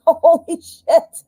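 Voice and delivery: high, laughing disbelief; laughing holy shit. Real, not acted. Reader laughing in shock at her own card reading, high.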